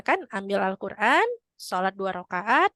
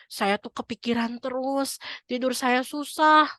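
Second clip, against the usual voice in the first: upset woman; 3 semitones higher, slower than usual. Retold or imitated. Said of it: "katanya gitu".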